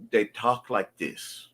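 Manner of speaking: slow "they talk like this" with "dey" and "dis". Shown as a demonstration. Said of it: "I'm going to write D E Y".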